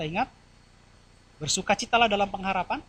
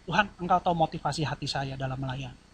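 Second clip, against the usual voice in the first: soft, earnest plea to God; a gentle, understated tearful prayer; 4 semitones lower, 7 dB quieter than usual. Retold or imitated. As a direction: pray quietly as if holding back tears. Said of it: "Saya nangis sama Tuhan".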